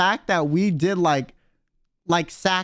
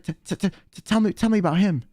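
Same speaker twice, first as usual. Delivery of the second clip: imitated stammer. Retold eager stammer at driver.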